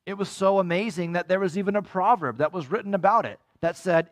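usual speaking voice

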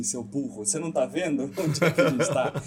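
laughing mock scold.

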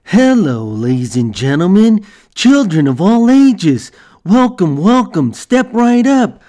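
showy ringmaster calling out to a crowd; circus barker. Pretend. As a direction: hype it up like a carnival barker. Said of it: "I sound like a real circus barker".

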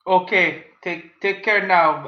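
put-on slow slurred drunk goodbye; drunk slurring. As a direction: slur it like a drunk. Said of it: "He probably slurs it".

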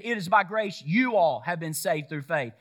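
"you all" leaned on in the verse; stress on YOU ALL. Shown as a demonstration. Preacher showing the verse is plural, stress on "you all". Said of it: "He's talking about plural".

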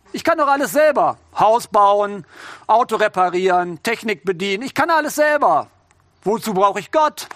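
mock-boastful voice of pride. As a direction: brag about doing everything yourself. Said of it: "Die Stimme des Stolzes".

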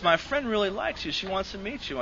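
imitated matchmaking girl. Voices the girl's matchmaking message.

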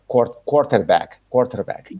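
quarterback con R, lento y marcado. Shown as a demonstration. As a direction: quarterback pronunciado despacio, estándar. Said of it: "Es quarter". (quarterback en pronunciación estándar)

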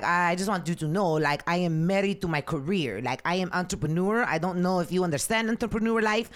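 imitating a date's accented English; heavy foreign accent. Date explaining he is married to his career, heavy foreign accent. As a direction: mimic his foreign accent, self-important. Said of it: "with a super heavy accent".

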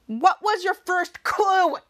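slow, exasperated retort; acted annoyed sarcasm; mock mad. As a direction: drag the question out in pretend anger. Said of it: "While being so mad at him".

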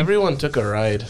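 put-on Midwestern wife accent. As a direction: have another go at a Midwestern accent. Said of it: "That was Midwest".

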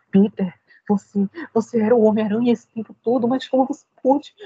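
lightly voiced tearful aunt; dramatic Aunt May. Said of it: "a gente espera um negócio tipo".

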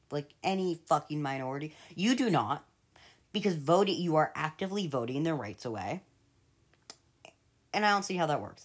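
furious at Trump voters; angry rant. Real, not acted.

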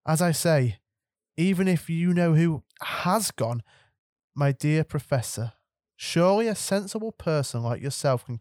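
a lightly voiced stern teacher; stern professor. McGonagall's voice in the story.

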